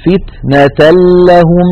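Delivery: فتنة لهم recited as "fitnatul-lahum" with a doubled لّ and no nasal hum; no ghunna, straight into لهم; tanween merged into lam. Shown as a demonstration. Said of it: "ننتقل من التاء إلى اللام المشددة".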